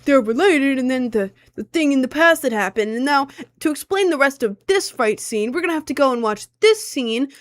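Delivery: mock the guy droning on about the show; mansplaining Australian guy. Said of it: "Pretend I have an Australian accent".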